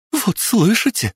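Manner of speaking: высокий торопливый женский лепет; пролепечи взволнованно. Acted. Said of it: "залепетала Алла". (Алла испуганно лепечет)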